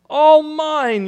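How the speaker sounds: triumphant cry. Acted. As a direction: crow it from the top of the stack. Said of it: "Yertle cried".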